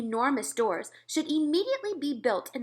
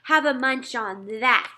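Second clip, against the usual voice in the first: shouting; 2 semitones higher, 7 dB louder than usual. A narrator's reading. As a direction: hurl it down at them with a shout. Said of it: "he shouted".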